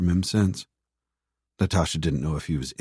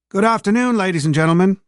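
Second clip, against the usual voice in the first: nasal conductor on a PA, higher; tinny railway announcement voice; train announcer; 11 semitones higher, 5 dB louder than usual. Acted. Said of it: "the nasal voice of the conductor on the public address system".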